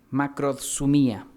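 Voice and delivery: macrosumía drawn out slowly with the D sound; careful teaching pronunciation. Shown as a demonstration. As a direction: say macrosumía slowly so they learn it. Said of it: "con D de dedo al medio". (macrosumía dicha despacio, con la D)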